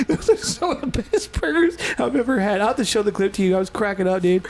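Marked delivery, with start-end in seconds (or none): 0.1-2.6 higher-pitched, lightly imitated Canadian accent; rough Canadian accent, pitched up; attempted Canadian accent. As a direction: attempt a Canadian bowling-burger fan. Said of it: "I can't do the accent".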